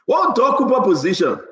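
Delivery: excited shout. Real, not acted. Excited host question.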